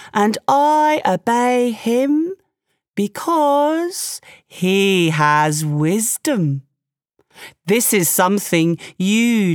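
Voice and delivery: slow, measured buffalo voice, lightly done; a patient old buffalo, slow and steady; wise Water Buffalo. Acted. Water Buffalo calmly lectures Tiger on wisdom, slow and measured.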